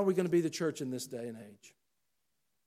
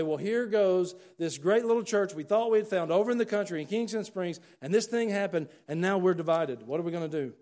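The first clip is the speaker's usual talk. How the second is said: worried churchgoer; 6 semitones higher, 7 dB louder than usual. Retold or imitated. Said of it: "and you're gonna say".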